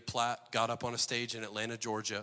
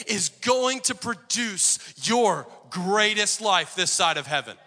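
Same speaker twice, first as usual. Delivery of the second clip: slow emphasis; 6 semitones higher, 7 dB louder, slower than usual. Acted. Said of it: "slowed for emphasis".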